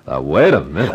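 laughing through a startled objection; laughing protest. Acted. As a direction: chuckle while holding her off. Surprised by request to stay.

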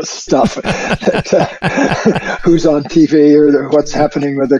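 slow, words broken up by laughter; laughing while talking. Real, not acted. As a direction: laugh your way through the list. Laughing at own dislike.

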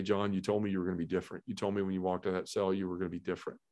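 softly voiced imitation of a whisper; small whisper. God gently reminding John of his promise, hushed. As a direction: drop it soft and low, voice still there. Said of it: "I heard that small whisper say".

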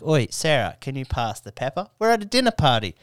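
mock innocent request at the table; hammed-up harmless explanation; casual call-out. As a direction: call across a dinner party. Imagined innocent call at dinner.

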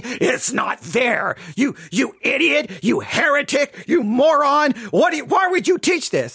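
hammed-up angry shouting of insults; mock yelling. Mimics critics yelling insults at him, mock shout. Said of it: "while you're yelling and screaming".

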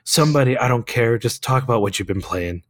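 rough, strained lost voice; hoarse voice. Real, not acted. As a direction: croak on through hoarseness.

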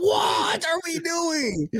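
high, slow mock wife voice; imitating his wife. Host mimicking his wife's reaction, high and slow. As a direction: lightly put on her confused tone. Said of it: "She's like".

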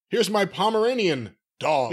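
slowed-down mock dog introduction; mimicking odd phrasing. Co-host mocking a listener's dog wording, slow and stilted. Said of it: "who talks like that".

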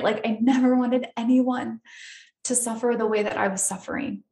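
moved, fighting tears; emotional. Real, not acted. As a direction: hold back tears as you say it. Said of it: "It's making me emotional".

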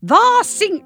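put-on loud, slow Yorkshire accent; broad Yorkshire man booming; northern accent. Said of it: "try and do a northern accent".

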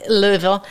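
"Louisville" run together as LOO-vul, silent S; local-style pronunciation. Shown as a demonstration. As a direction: say "Louisville" compressed, dropping the S.

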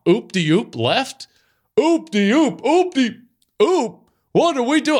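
hammed-up huddle call, pitch jumping up; a fan reenacting the movie's play call, high and excited; mock play call. Quoting Varsity Blues play call.

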